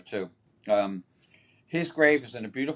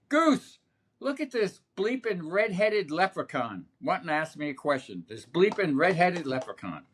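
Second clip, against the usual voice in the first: high-pitched mock holler, easing down toward the end; retold yell; 5 semitones higher than usual. Catcher complains to teammate about the red-headed reporter, mock yell. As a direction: imitate a ballplayer calling a teammate over to gawk. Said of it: "And he yells across".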